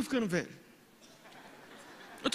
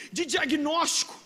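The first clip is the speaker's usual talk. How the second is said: ordinary talk, nothing marked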